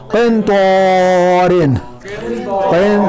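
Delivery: क़िन with a hidden, nasal न before त्वा, slowly; nasal ikhfa. Shown as a demonstration. Teacher models ikhfa on क़िन त्वा. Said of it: "जब तक मैं क़िन पढ़ूंगा".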